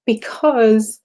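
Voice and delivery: moved, pausing to hold it together; real tearful emotion. Real, not acted. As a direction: push the explanation out through tears. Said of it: "I guess I'm crying because".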